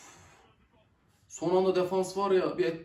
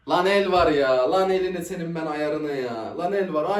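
louder, insisting "el"; loud protest; 5 dB louder than usual. Real, not acted. Fan loudly claiming a handball to the screen.

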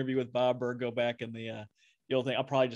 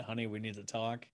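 ominous quote; 4 dB quieter than usual. Retold or imitated. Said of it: "it's like a cuss word".

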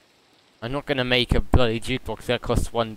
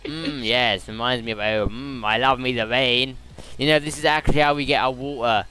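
mock British accent. Streamer joking about drinking the rain, mock British accent. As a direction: ham up a dialect British accent. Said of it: "you can't pronounce R's".

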